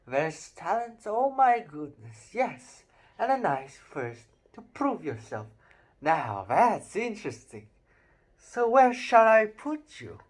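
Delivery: a lightly voiced old magic hat, musing; Sorting Hat voice. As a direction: muse aloud like an ancient talking hat. Reading the Sorting Hat's voice.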